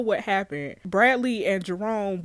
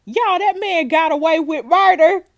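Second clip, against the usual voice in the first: loud, higher-pitched disbelief; incredulous outburst; 6 semitones higher, 8 dB louder than usual. Real, not acted. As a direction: exclaim it to everyone, scandalised. Stunned by the episode's outcome.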